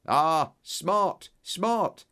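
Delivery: gleeful praise; delighted cry. A narrator's reading. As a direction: relish the word smart like a winning find. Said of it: "he cried delightedly".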